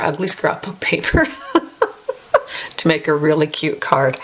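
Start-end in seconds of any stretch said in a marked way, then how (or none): 0.0-1.3 chuckling through the line; amused at her own ugly paper, laughing as she speaks. Real, not acted. Crafter to viewers, joking about ugly paper, laughing. 1.3-2.7 short breathy giggle; a quick airy laugh at herself; light laugh. Real, not acted. Crafter laughing at her ugly scrapbook paper, airy giggle.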